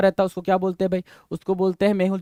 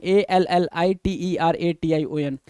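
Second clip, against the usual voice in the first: slow spelling; slower than usual. Shown as a demonstration. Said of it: "उसको बोलते हैं एलिट्रेशन".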